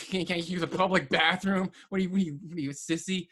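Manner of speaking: mock-taunting a coworker. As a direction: needle him with quick repeated questions. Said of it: "I just started making fun of him".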